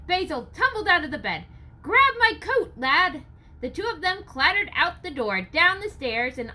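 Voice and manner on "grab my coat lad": high, loud hurried order; urgent order. Acted. Basil orders the lad to fetch his coat, high loud. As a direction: bark it while scrambling out. Old man rushing in alarm.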